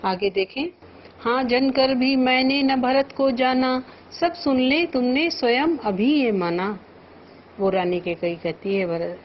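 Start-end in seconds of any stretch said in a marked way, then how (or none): 1.2-6.8 measured, lifted verse recitation; poem recital. Shown as a demonstration. Teacher reciting verse to the class. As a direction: recite the couplet with feeling.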